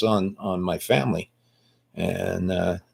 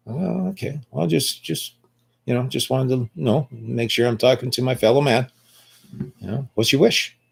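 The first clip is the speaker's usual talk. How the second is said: mock politeness; 3 semitones higher, 3 dB quieter than usual. Answering the cop who called him idiot, mock politeness. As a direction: play sweetly innocent to needle him.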